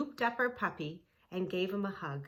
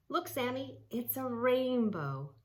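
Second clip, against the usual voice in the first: amazed Rachel; 6 semitones higher than usual. Acted. Rachel spots a rainbow, high and full of wonder. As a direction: marvel at the sight.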